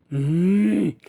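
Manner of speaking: long growling hum. Acted. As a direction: growl through a closed mouth. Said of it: "பெரும் சத்தத்துடன் உரும ஆரம்பித்தாள்". (உறுமல்)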